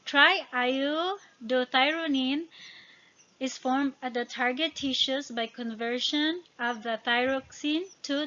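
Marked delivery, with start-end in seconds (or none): 0.1-2.5 slow, careful word-by-syllable delivery; careful sounding-out. Real, not acted. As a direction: sound out a tricky term slowly. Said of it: "It's really hard to pronounce".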